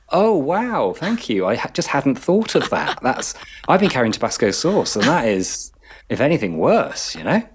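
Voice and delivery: sarcastic thanks. Retold or imitated. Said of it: "every time I'm like".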